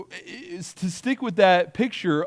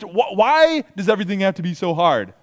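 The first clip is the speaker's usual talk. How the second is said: complaining; 3 dB louder than usual. Acted. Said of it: "You start to complain".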